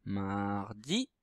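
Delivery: MAR drawn out, DI lifted at the end; dictée syllabique. Shown as a demonstration. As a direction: softly stretch Mardi while writing it. Dit le mot en l'écrivant. (dictée syllabe par syllabe, finale montante)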